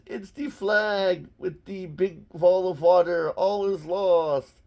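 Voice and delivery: put-on hammy German accent, drawn out at the end; put-on German despair; mock German accent. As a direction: lament defeat in a comic German accent. Voices the panicking Nazis.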